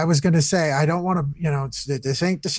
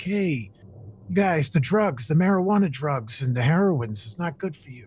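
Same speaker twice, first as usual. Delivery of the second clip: youth counselor; 4 dB quieter than usual. Retold or imitated. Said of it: "be like".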